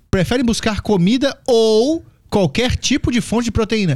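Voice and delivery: incredulous rereading. Shown as a demonstration. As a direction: reread it like it's absurd. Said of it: "Que comida?". (releitura incrédula)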